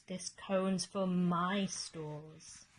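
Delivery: slow stubborn squirrel. Acted. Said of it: "shouted Bruce".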